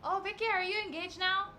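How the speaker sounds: warm Korean grandma. Retold or imitated. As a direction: voice an excited grandmother. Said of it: "she was like".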